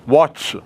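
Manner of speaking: वॉट्स ending in a crowded ch-s cluster; awkward pronunciation. Shown as a demonstration. Teacher repeating a difficult plural, वॉट्स with laboured final cluster. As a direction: say वॉट्स with s tacked straight onto ch, no vowel. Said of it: "उच्चारण कठिन हो रहा".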